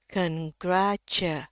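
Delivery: "congratu" découpé lentement, mélodie qui monte et descend; détacher chaque syllabe de "congratu"; syllabes montantes et descendantes. Shown as a demonstration. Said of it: "turun, naik, turun".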